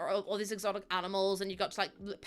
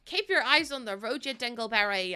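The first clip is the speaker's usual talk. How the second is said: playful exasperated driver; mock scolding. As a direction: scold the passenger in jest. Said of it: "You're supposed to be driving".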